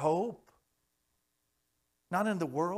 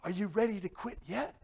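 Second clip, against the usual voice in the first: drill instructor taunt; 4 semitones higher than usual. Retold or imitated. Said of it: "And he keeps saying".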